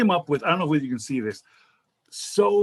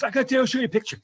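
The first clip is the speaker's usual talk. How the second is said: imitating the driver; 9 semitones higher, much faster than usual. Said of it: "So he goes".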